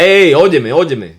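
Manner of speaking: sharp loud Hey, óyeme, high and forceful; loud call. Shown as a demonstration. Shouting at people talking over you, loud. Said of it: "And you gotta say a little loud".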